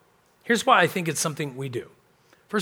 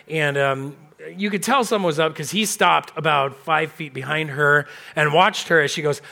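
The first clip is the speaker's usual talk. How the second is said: normal talking voice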